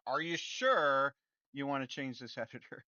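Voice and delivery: teasing the nagging popup, with a laugh; mock popup, laughing. Developer mocking the Unity popup, laughing. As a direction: laugh through the popup's fussy question.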